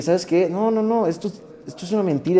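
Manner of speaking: sudden defiant no, no, no; defiant outburst. Retold or imitated. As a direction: push back hard, pitch climbing on the noes. Retelling his own defiant outburst.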